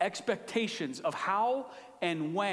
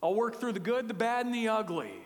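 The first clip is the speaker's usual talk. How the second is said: confident God; 5 semitones higher than usual. Retold or imitated. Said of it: "God's saying".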